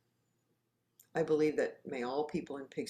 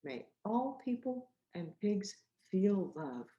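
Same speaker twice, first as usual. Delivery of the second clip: slow gentle recital; 3 semitones higher than usual. Shown as a demonstration. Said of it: "Saying it with me".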